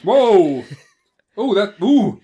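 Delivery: loud, high startled whoa; shocked whoa. Real, not acted. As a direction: gasp it out in shock. Shocked by incest joke.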